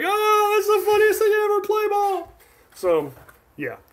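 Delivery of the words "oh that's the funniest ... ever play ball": amused. Retold or imitated. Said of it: "And so I'm like".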